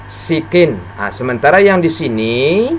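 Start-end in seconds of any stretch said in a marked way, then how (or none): 0.1-0.8 SIKIN with a plain thin s; relaxed-mouth sin. Shown as a demonstration. Teacher contrasting sin with shin, relaxed thin s in sikin. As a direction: keep the mouth calm on the s of sikin. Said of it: "seperti tenang dia".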